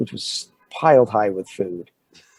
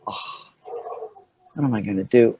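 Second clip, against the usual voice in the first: put out. Retold or imitated. Actor torn from his sandwich, put out. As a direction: act mildly put out. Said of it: "like, put out".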